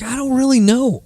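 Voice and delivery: put-on high, light voice of a young woman; unsure young girl. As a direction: lightly imitate a girl who has no answer. Girl answers at counter.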